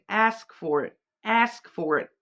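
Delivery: put-on light American accent on ask; mild American twang on "Ask for it". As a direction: say it like a faint American. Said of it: "Is that, like, American?".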